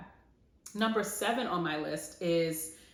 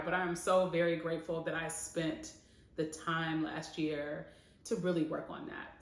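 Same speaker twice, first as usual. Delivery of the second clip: holding back tears. Real, not acted. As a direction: voice softening as she fights tears. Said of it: "I'm trying not to cry".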